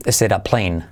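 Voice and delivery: "is it a" as "ésera", low falling; like river Ésera. Shown as a demonstration. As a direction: say "is it a" as one word "ésera". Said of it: "Pues lo mismo". ("is it a" igual que "Ésera")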